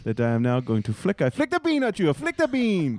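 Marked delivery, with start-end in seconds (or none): 1.2-2.1 silly high voice. Acted. Silly chef game, high voice. 2.1-3.0 silly high voice. Acted. Silly chef game, high voice.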